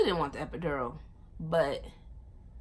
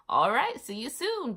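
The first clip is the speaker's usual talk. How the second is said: breezy doctor; 7 semitones higher, 5 dB louder than usual. Retold or imitated. Doctor voiced casually on phone.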